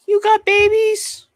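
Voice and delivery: very high, slow, cooing squeal; squealing puppy excitement. Real, not acted. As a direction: coo like you're melting over newborn puppies. Reacting to a chatter's newborn pups.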